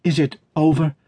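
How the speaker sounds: high, urgent question; anxious cry. A narrator's reading. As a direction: cry it out high, desperate for the answer. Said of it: "cried Dot".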